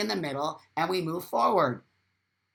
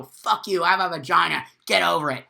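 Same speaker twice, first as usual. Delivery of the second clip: louder defiant snap; loud hammed-up defiance; mock angry retort; 5 dB louder than usual. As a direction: show the angry reaction. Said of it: "get angry and go".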